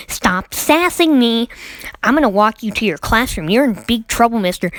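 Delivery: lightly voiced scolding Karen teacher; retold stern telling-off. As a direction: imitate a teacher laying down the law. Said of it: "that was a Karen".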